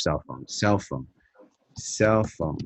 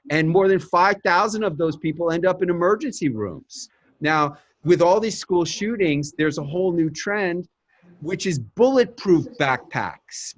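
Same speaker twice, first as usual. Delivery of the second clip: confident pitch delivery, slightly raised; doctor pitching her segment to a producer, brisk and confident; pitch talking points; 4 semitones higher than usual. Shown as a demonstration. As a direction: rattle off the facts like a pitch. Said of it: "And then you say".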